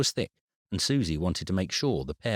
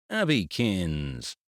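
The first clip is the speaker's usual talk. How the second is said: fond greeting; much slower than usual. Acted. Grandad greeting granddaughter.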